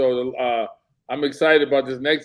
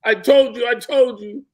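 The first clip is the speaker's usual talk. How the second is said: loud, higher mock I-told-you-so; imitating angry coach; 10 semitones higher, 4 dB louder than usual. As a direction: hammer it in like a furious coach. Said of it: "He was so mad".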